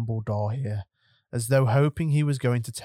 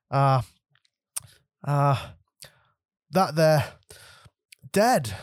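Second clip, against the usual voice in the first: halting dread; 4 semitones higher than usual. Acted. Breaking terrible news, halting.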